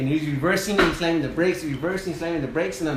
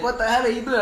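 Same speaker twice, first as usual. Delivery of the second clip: much higher, incredulous scolding; exasperated captain; 8 semitones higher, faster than usual. Retold or imitated. Captain scolds the sawyer cutting a tree, exasperated. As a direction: catch him doing something stupid.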